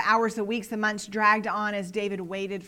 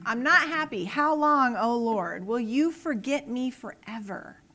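fed up; 4 dB louder than usual. Acted. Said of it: "and now he's like".

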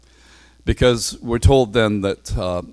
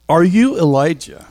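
questioning delegation; 7 semitones higher, 3 dB louder than usual. Acted.

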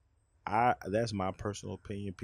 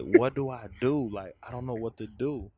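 panicked confused man; 3 semitones higher, 8 dB louder than usual. Retold or imitated. I'd be like.

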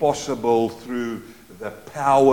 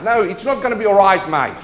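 fast and louder, "not" punched; firm rebuttal; 4 semitones higher, 6 dB louder than usual. Real, not acted. Preacher answering the complacent believer, firm rebuke. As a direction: cut it down hard.

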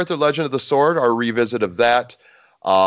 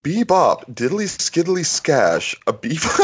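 after laughing hard; 4 semitones higher than usual. Real, not acted. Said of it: "Oh, my cheeks hurt".

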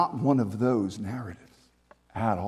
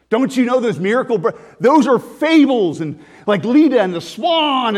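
mocking skeptic; 5 dB louder than usual. Mocking skeptic's Dionysian argument.

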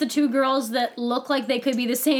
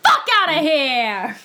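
mock shout; 3 semitones higher, 3 dB louder than usual. Echoing the quote louder.

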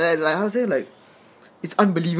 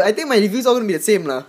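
laughing; 4 semitones higher, 3 dB louder, faster than usual. Real, not acted. Laughs at own repetitive reviews.

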